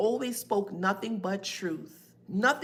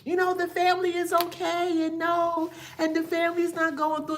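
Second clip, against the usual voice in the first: higher, falsely cheerful voice, faster at the end; pretending Libra; 9 semitones higher than usual. Psychic imitating a Libra pretending the family is fine, higher mock-cheerful voice. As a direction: play someone insisting all is fine. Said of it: "a Libra that's pretending".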